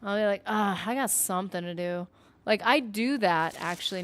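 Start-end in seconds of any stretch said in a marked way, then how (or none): 0.5-2.1 casual "something", said as somethin' with no final G; lightly put-on voice, "something" ending on N; put-on dropped-G voice. Shown as a demonstration. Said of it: "putting on a v-, voice".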